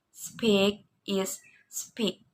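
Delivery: soft slow whisper of speak; whispered take. Shown as a demonstration. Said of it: "read in a discordant tone".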